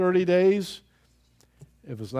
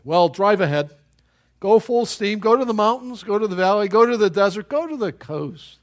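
louder, driving call to go everywhere; loud rallying; 5 semitones higher, 7 dB louder than usual. Acted. Preacher rallying listeners to go full steam, louder. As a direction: push each go forward like a rallying cry.

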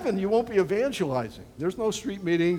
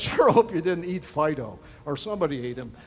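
ordinary talk, nothing marked

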